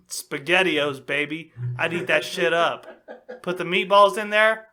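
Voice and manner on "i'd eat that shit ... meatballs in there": words pushed out through laughter, louder at the end; laughing. Real, not acted. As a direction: joke while cracking up. Joking lust over cast.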